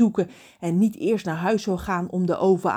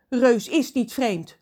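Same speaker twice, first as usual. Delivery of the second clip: getting angry; 6 semitones higher, 5 dB louder, slower than usual. Acted. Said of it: "Ron wordt kwaad".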